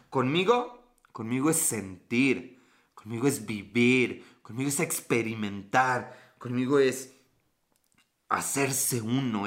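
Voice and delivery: low, slow mock-seductive lines. Teasing viewer Carla with mock seduction. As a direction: purr it like a cheesy lover.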